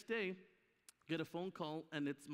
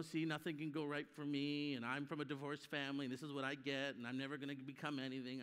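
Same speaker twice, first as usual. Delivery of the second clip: self-pity; 5 semitones lower than usual. Retold or imitated. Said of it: "operating like a victim".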